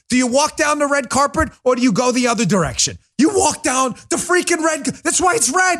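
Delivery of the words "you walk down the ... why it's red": high-pitched, worked-up exasperation; exasperated rant. Real, not acted. Host fed up over the red carpet, high exasperated rant. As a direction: hammer it home in rising exasperation. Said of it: "I gotta calm down".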